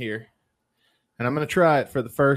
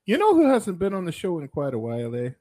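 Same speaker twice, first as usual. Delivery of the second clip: put-on Canadian accent; 4 semitones higher than usual. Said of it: "Why am I talking like this".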